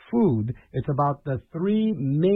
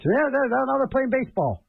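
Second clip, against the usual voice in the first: imitating parents; 8 semitones higher than usual. Parents explaining thunder to kid.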